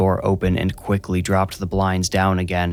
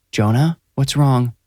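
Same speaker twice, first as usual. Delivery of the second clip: gentle; 5 semitones higher than usual. A narrator's reading. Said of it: "saying his name gently".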